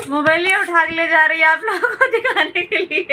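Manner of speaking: laughing while complaining, fast. Real, not acted. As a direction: talk through laughter. (हँसते हुए शिकायत)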